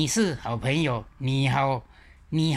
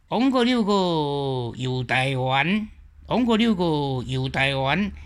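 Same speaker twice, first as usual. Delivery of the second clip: put-on Quanzhou accent. Teacher imitating old TV drama in Quanzhou accent. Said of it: "古早差不多泉州音是安".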